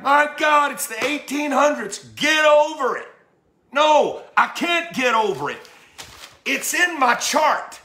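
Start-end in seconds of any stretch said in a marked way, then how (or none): 0.0-3.1 dismissive mock white voice. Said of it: "we're like".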